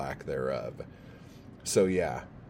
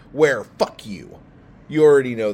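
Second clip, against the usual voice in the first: mock angry outburst; 5 semitones higher, 13 dB louder than usual. Mock-hostile podcast intro.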